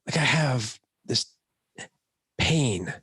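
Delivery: lightly voiced wife describing her pain; wife's whiny complaint. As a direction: act out a wife's sore-headed complaint. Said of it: "she's like".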